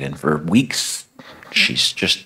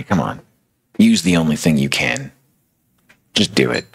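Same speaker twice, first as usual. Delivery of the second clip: accusing inner voice; 2 semitones lower than usual. Acted. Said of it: "That voice in the back of her head".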